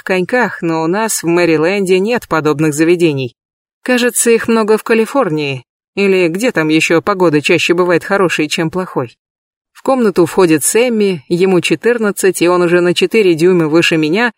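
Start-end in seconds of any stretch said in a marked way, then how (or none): none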